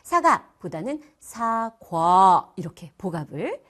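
사가 short, then 사과 with a long drawn 과; slow diphthong demo. Shown as a demonstration. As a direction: contrast 사가 with a slow, stretched 사과. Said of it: "길게 복압을 만들어요".

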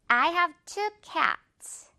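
careful rubber-band demo; slow model sentence. Shown as a demonstration. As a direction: model each word, pulling cats to "ke-ats". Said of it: "이렇게 발음을 해줘야".

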